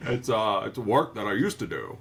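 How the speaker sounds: low, hesitant old-actor impression; Jimmy Stewart. Host attempts the neighbor and lands elsewhere, lightly imitated voice. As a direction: loose impression of a folksy neighbor. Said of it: "more Jimmy Stewart than Judd Crandall".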